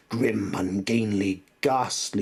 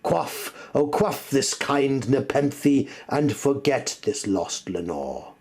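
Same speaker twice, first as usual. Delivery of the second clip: pleading cry; 6 semitones higher, 4 dB louder than usual. Acted. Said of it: "I cried".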